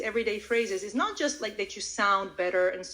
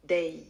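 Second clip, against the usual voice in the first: "Day" alone, lower and drawn out; long, low "Day"; stressed final word; 5 semitones lower than usual. Shown as a demonstration. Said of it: "add the stressed word at the end".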